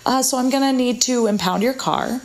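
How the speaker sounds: a friendly cop delivering bad news lightly; cheery Irish cop. Policeman cheerfully telling tourists he'll impound the car. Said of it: "he says".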